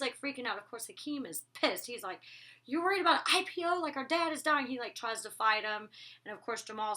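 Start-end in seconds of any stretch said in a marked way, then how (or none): 2.7-4.7 higher, louder, fast angry disbelief; furious brother, hurried and raised; angry outburst. Retold or imitated. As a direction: snap at your brother in disbelief. Hakeem angry at Andre.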